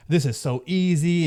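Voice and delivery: mock naive enthusiasm, stretched out; imitated excitement. Beginner sure it will be easy, imitated excitement. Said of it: "you're just filled with excitement".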